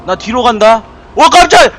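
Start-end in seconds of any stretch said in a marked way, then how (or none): 1.1-1.7 sudden loud jump-scare cry, pitched high; startled yelp. Real, not acted. Gamer jumps at a scare, crying out high and loud. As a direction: jolt out a frightened gasp of words.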